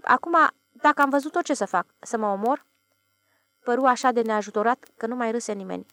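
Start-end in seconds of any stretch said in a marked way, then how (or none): 0.0-2.7 a crooked, helpless grin in the voice; wry smile. Acted. Ilie asks the bar crowd what to do, wry and helpless. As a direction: shrug it off with a forced smile. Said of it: "zâmbind cam strâmb".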